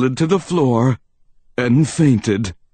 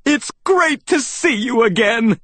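high, delighted greeting; high-pitched glad exclamation; excited cry; 10 semitones higher than usual. A narrator's reading. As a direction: greet an old friend with bouncy joy. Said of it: "I cried, bouncing up".

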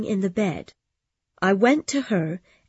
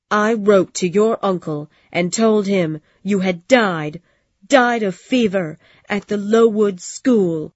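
louder, hard spiteful confession; angry; 6 dB louder than usual. Acted. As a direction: spit out the old grudge. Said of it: "looking at me angrily".

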